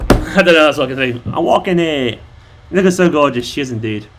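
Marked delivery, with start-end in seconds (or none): 1.3-2.2 lightly done New York accent; a casual stab at New York. Shown as a demonstration. Repeating the only New York line known, light accent. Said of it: "New York".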